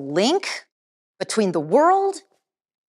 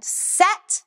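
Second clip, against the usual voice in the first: high sharp command; commanding call; 11 semitones higher than usual. Shown as a demonstration. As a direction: bark it like an instructor.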